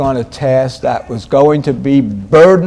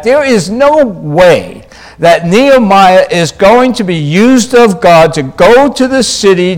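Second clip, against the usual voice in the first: louder, higher, insistent sermon voice; emphatic preaching; 4 semitones higher, 5 dB louder than usual. Real, not acted. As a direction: drive the point home from the pulpit. Preaches with raised force.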